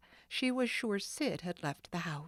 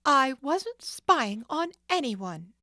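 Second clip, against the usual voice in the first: defiant; 7 semitones higher, 7 dB louder than usual. Acted. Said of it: "Nancy faced the man defiantly".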